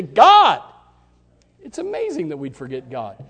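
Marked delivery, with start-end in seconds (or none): 0.0-0.6 shouted God. Pretend. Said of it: "it just shouts at you".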